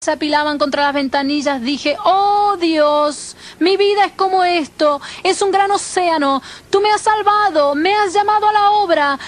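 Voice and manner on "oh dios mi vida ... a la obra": higher, earnest retold prayer; crying out to God. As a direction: appeal to God over the storm. (clamor a Dios con voz elevada)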